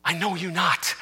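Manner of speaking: dropped soft, close to the mic; quiet repeat. Shown as a demonstration. Preacher repeating Christ's words softly to the congregation. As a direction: let it fall softly to the room. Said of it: "It's the same words".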